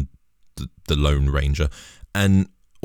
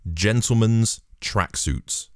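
slow, deliberate; 5 semitones higher, slower than usual. Shown as a demonstration. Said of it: "Put that into Google".

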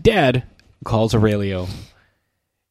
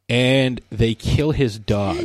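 mock crying; slower than usual. Mock grief at dog's death.

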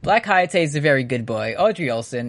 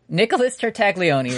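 put-on voice; 5 semitones higher than usual. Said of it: "regular voice".

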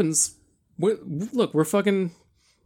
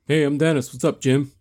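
hammy stage actor. Acted. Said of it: "you're hamming it up".

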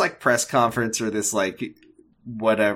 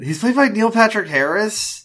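much higher, louder disbelieving question; can't believe what you just heard; real astonished squeak of disbelief; shocked question; 12 semitones higher, 4 dB louder than usual. Real, not acted. Hears surprising casting news.

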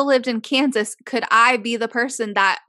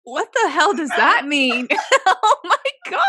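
laughing out the words; 6 semitones higher, 3 dB louder than usual. Real, not acted. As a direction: shriek through laughter. Laughing at delusional question.

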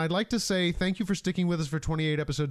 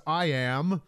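posing hero shout; much slower than usual. Retold or imitated. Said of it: "does kind of like a yoga pose and shouts".

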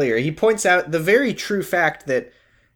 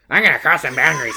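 a light mock imitation of Ken the therapist; half-hearted Ken send-up; Ken impression; faster than usual. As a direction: lightly put on a cocky therapist voice. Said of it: "this is my Ken impression".

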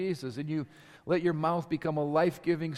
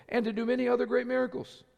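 higher-pitched voice, lightly acting out people pleading their case; pleading claimants; 7 semitones higher than usual. Many plead with the Lord at the judgment, mildly pleading. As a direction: plead a little, pitched up, as those being judged.

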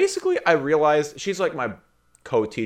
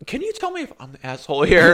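laughing; 6 semitones higher, 6 dB louder than usual. Real, not acted. Asking coworker, laughing.

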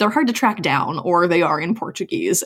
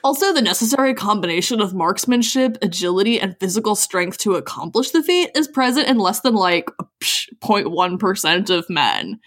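gym bro. Acted. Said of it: "a bro voice for me".

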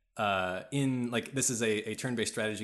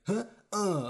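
imitated huffy grunt, pitched up; mock sulky grunt; 11 semitones higher, 4 dB louder than usual. Game officer who just lost a battle, mock sulking. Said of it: "sulk a little bit".

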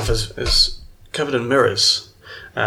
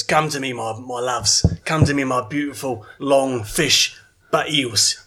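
tender calling. Acted. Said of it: "reaches his hands out, and he goes".

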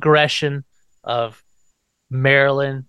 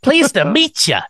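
put-on much higher, slow creaky-old-man greeting; a hammed-up spooky hello; Grandpa's greeting; 11 semitones higher, 4 dB louder than usual. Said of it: "Grandpa pops up".

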